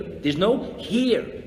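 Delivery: each word slowed and weighed; slow emphasis. Shown as a demonstration. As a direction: draw it out, letting it land.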